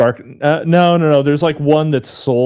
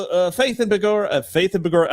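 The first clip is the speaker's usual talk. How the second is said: stock Irish phrase to find the brogue; wobbly Irish accent, slipping towards English; attempted Irish accent; 3 semitones higher than usual. Shown as a demonstration. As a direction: try to get back into an Irish accent. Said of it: "all right, I'm turning English".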